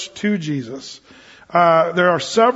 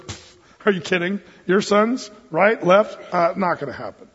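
mild brush-off with a puff of scorn; dismissive scoff. Retold or imitated. Imagined Jesus turning down a mother's request, mildly dismissive. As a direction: scoff lightly, imitating a dismissive refusal. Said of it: "the attitude that we sort of, uh, superimpose on Jesus".

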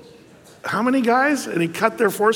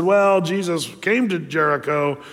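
resigned rationalizing; 3 semitones lower than usual. Retold or imitated. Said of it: "rationalized and said".

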